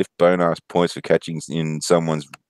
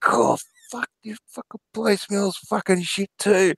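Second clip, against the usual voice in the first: mimicking Luke. Offsider complains again, voiced high.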